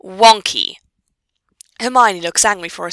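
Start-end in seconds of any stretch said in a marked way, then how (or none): 0.0-0.8 loud, falling echo of disbelief; incredulous echo. Acted. Hermione echoing Pansy's explanation, incredulous. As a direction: repeat the word loudly, unimpressed.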